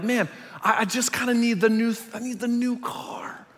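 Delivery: craving whisper. Retold or imitated. Voicing inner craving.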